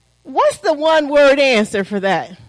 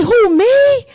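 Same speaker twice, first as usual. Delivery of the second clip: shocked disbelief; 5 semitones higher, 4 dB louder than usual. Pretend. Acted shocked reaction to sin.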